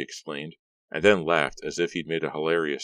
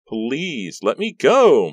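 high, very loud plea; shout-begging to be released; 9 semitones higher, 9 dB louder, much slower than usual. Acted. Maya repeats her begging.

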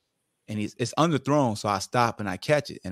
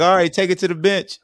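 loud, raised-pitch coach call; 9 semitones higher, 8 dB louder than usual. Retold or imitated. Coach sending players to the bench, called out loud. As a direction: call the team off the field.

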